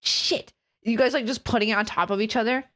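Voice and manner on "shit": breathy unvoiced "shit"; whispered curse. Real, not acted. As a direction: whisper it along with the video. Whispering along with the clip.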